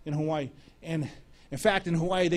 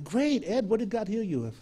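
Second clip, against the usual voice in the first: bright-pitched, eager question; eager reply; 5 semitones higher than usual. Retold or imitated. Preacher replying to his friend's healing news, eager. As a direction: respond to good news with a higher, keen voice.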